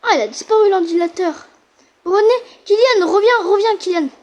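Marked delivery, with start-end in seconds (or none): 2.0-4.1 calling out. Real, not acted. Calling him back.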